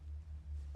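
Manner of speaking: a short, breathy snort of defiance; defiant snort. Acted. Irina answers her brother's warning with a defiant snort. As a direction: scoff at him with a snort. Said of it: "a sort of snort in defiance".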